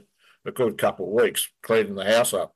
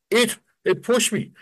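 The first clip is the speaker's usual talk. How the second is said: high, slow, stammering; stunned fear; 12 semitones higher than usual. Retold or imitated. Friend insisting to Brett that it pushed him, high, slow and stunned. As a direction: stammer it out in disbelief. Shaken friend repeats his claim.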